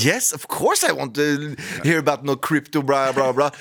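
overenthusiastic. Retold or imitated. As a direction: gush with fake enthusiasm. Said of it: "sier jeg overentusiastisk".

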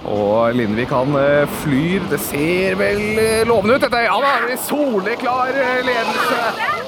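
sports play-by-play; live commentary. Real, not acted. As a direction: call the jump live. Live ski jump play-by-play.

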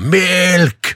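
high called-out Melk; mock shout. Imitating a singer shouting in the trailer. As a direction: call for milk like a cat. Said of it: "står og bare roper".

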